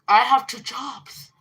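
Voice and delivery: hammed-up sister's complaint; mocking sister. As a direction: drag it out to mock her. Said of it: "She's like".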